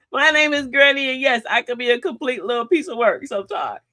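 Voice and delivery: mock AA confession. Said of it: "I have to admit it".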